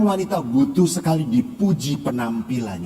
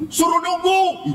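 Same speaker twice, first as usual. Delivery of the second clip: retold shout; 11 semitones higher, slower than usual. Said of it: "Teriak tuh".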